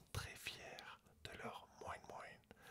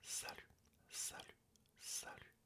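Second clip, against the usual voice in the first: ASMR whisper. Real, not acted. Whispering a German lesson to ASMR viewers. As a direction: whisper close to the mic throughout.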